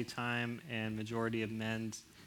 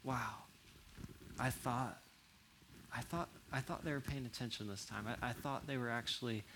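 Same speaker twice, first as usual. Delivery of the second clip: hurt; 2 semitones lower, 9 dB quieter than usual. Retold or imitated. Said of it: "they walk away going".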